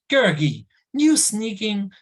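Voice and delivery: a sudden furious yell at the thing he grabbed; startled angry shout. Acted. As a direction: shout the name, then drag out the insult slowly. Taran grabs Gurgi in the dark.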